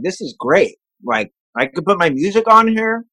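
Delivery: talking while eating cheese; mouth full. Real, not acted. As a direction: speak through a mouthful. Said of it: "Sorry, I'm eating some cheese".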